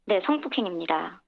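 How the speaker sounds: electronically altered voice; voice changer. Real, not acted. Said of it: "음성 변조를 해서".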